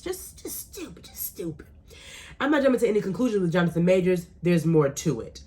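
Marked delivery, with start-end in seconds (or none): 0.0-1.7 very soft, dismissive aside; hushed muttering in disbelief; whispered disdain. Real, not acted. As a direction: drop right down to a near-silent whisper. Hushed aside condemning the judge.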